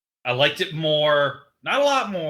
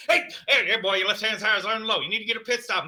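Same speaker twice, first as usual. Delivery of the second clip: higher, lightly voiced pit crew chief calling out; nascar pit chief; 7 semitones higher, faster than usual. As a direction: bark the tire warning like a pit boss. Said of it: "for the nascar pit chief career here".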